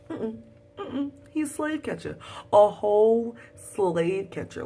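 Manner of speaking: high, then slow loud dismay; dismayed disbelief. Real, not acted. Vlogger telling viewers about the slave catcher, dismayed. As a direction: shake your head in disbelief.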